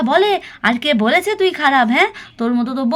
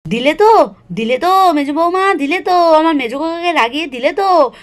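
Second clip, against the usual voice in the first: louder, reproachful scolding; blaming mother-in-law; 3 dB louder than usual. Acted. Mother-in-law blaming daughter-in-law for angering her son, loud reproach. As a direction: hammer the blame on her, raised voice.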